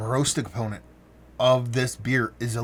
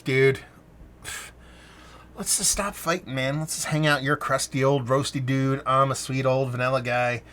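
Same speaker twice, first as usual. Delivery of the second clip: mock buddy voice; 3 semitones higher than usual. Vanilla voiced making peace.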